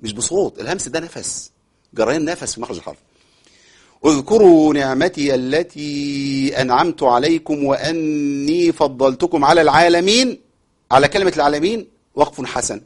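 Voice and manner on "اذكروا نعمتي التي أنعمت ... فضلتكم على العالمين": slow, measured chanting of the verse; Quran recitation. Shown as a demonstration. Teacher recites the verse for students, slow chant. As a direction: recite it calmly with long vowels.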